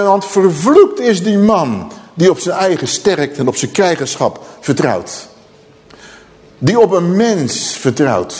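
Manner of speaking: emphatic prophetic curse; heftig, forceful declamation. Acted. Preacher quoting the prophet to dear people, forceful declamation. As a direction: proclaim it with force, then let it drop. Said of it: "We gaan even, eh, heftig doen".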